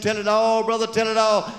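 high, fervent chant; revival preacher. Acted. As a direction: urge him to keep confessing.

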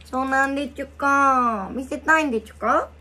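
put-on childish lisping toddler voice; baby talk. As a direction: coo like a toddler.

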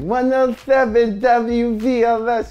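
slow, booming DJ call; radio announcer. Retold or imitated. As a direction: announce the station big. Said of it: "I was like".

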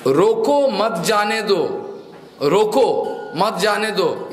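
slow mock shout with a pause after रोको; owner calling out. Shown as a demonstration. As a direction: call out रोको, then मत जाने दो as an order. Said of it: "मालिक चिल्ला के बोल रहा है". (मालिक की हल्की चिल्लाहट, रोको के बाद विराम)

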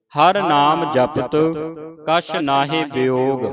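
measured Gurbani reading, phrase by phrase; slow, deliberate reading with drawn-out final vowels; scripture recitation. Shown as a demonstration. (ਠਹਿਰਾਅ ਨਾਲ ਗੁਰਬਾਣੀ ਸੰਥਿਆ ਪਾਠ)

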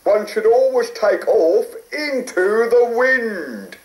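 lightly voiced RAF pilot; a hint of a brisk flight instructor. A narrator's reading.

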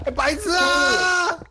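high loud slow yell; exasperated shout. Real, not acted. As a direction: shout it in disbelief. Teammate blows himself up. (气急败坏地大喊)

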